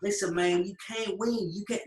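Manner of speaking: lightly mimicked gloating Southern US accent; high-pitched Southern accent. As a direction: taunt with a touch of Southern twang. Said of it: "high-pitched southern fucking accent".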